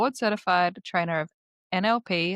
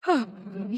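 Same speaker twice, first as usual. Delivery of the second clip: breathless sigh. Real, not acted. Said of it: "Sorry, I'm short of breath".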